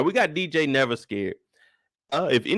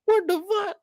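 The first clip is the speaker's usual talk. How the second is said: exasperated. Real, not acted.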